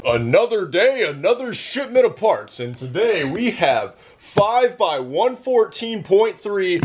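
news anchor delivery; newscaster voice. Pretend. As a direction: read it like the evening news. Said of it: "That was my newscaster voice".

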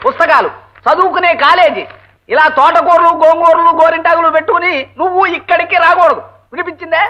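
usual speaking voice

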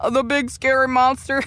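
giggling through the taunt; laughing. Acted. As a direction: laugh at the villain while talking. Hero mocks the villain.

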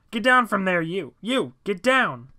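loud, high command from a cop; shouted police order. A narrator's reading. Cop nearby orders John off the statue, shouting. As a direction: order someone down, calling it out forcefully.

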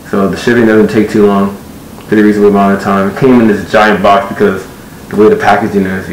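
muffled inside closed helmet; speaking behind a mask; through a helmet faceplate. Real, not acted. Seen 1: Faceplate closed over face throughout; reference frames show faceplate open.

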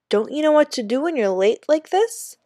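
high Jamaican guard voice; lightly voiced Jamaican guard; Jamaican accent. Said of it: "spoke with an accent that Danny really liked".

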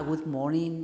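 understated, dull good morning; bored greeting. Retold or imitated. Coach mimics a student's dull opening, mildly bored. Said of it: "it's really bored".

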